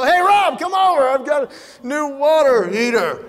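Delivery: high-pitched eager call to a friend; hammed-up enthusiasm; mock excited invitation. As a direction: holler it like big news.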